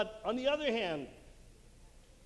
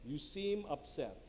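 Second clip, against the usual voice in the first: slower, softer delivery; gentle validation; 3 semitones lower, 5 dB quieter, slower than usual. Shown as a demonstration. Coach models a reply to an upset spouse, gentle validation. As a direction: validate them softly and slowly.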